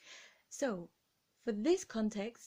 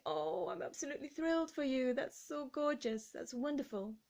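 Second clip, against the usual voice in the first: a gushing, higher, softer voice full of delight; 3 semitones higher, 5 dB quieter than usual. Shown as a demonstration. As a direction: coo with delight over the kitten. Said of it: "You could say".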